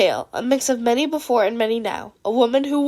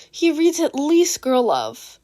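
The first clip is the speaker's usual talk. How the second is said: slow reveal; 3 semitones higher, slower than usual. Acted. Izuku reveals the secret.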